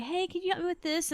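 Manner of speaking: put-on high asking voice; imitated polite customer. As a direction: lift the pitch for a retold friendly request. Women customers asking for help, voiced.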